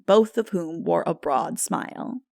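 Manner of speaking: usual speaking voice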